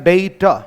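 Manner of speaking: डेटा said with ei, "day-ta"; correct pronunciation. Shown as a demonstration. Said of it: "इस शब्द का सही उच्चारण". (सही उच्चारण डेटा)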